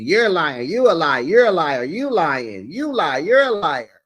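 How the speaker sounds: loud, accusing "you're a liar"; hammed-up shouting match; mock argument. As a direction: fling the accusation back and forth. Acted argument between cast members.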